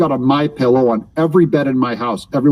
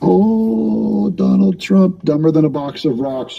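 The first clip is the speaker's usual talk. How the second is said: mock echo; 5 semitones higher than usual. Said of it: "echoing the caller".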